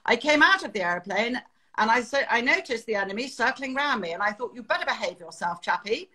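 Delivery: lightly imitated old-school British pilot; calm, understated clipped British delivery; clipped British accent. Retelling a pilot's calm dogfight story, clipped British accent. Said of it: "this beautifully clipped British accent of this chap".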